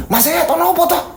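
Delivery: high, laughing neighbour; a villager chuckling at the fuss; amused neighbour. Acted. Neighbour asks what's up. (tetangga bertanya sambil tertawa)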